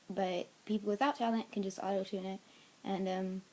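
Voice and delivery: thick, swollen-tongue speech. Real, not acted. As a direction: talk around a swollen tongue. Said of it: "why I'm talking like that".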